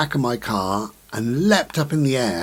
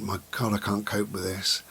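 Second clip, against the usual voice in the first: whispered despair; 6 dB quieter than usual. Retold or imitated. Voicing a despairing inner thought.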